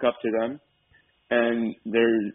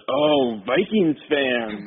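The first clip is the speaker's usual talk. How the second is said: kiosk guy's reaction; 3 semitones higher, much slower than usual. Retold or imitated. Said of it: "he goes".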